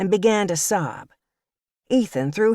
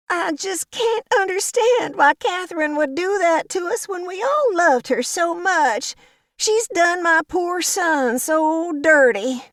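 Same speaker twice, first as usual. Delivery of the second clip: Violet sobbing; 12 semitones higher than usual. A narrator's reading. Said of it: "she sobbed louder".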